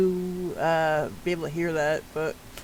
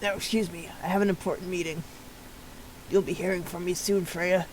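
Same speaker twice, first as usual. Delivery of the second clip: softer, cool parting words; ominous exit; 6 dB quieter than usual. Acted. Character coolly excusing himself from Freya, softer and ominous. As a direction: leave with a quiet threat.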